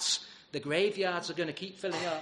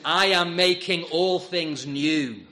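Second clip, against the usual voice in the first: a measured, louder divine announcement; thundering voice; 6 dB louder, slower than usual. Acted. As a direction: declare it like a voice booming across the cosmos. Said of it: "a voice finally thunders through the cosmos".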